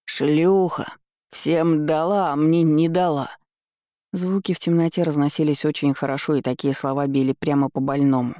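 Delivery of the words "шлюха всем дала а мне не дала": put-on slurred drunk shouting from afar; drunk yelling. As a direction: yell it, drunk and spiteful. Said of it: "стал кричать".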